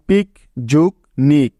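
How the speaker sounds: পিক and নিক set apart around যোগ; syllable-by-syllable পিক যোগ নিক; split into syllables. Shown as a demonstration. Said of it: "শব্দটিকে আলাদা করে দুটি অংশ পেলাম".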